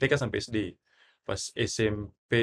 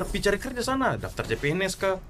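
scolding mother, pitched up; nagging parent; 5 semitones higher than usual. Acted. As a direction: nag the lazy gamer son. Mock parent scolding gamer child.

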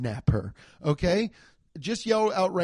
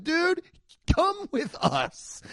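higher, slow cop order; hint of a cop ordering him along; lightly voiced cop; 13 semitones higher, slower than usual. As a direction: imitate a cop, a touch of mock stern. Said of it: "They'd be like".

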